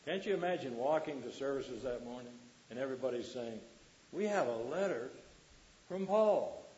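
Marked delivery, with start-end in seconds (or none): 4.1-6.6 excited announcement. Acted. Acting out the excited congregation.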